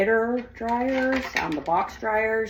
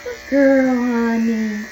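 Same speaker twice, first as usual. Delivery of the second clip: loud praise; 4 semitones higher, 5 dB louder, much slower than usual. Real, not acted. Praising dog.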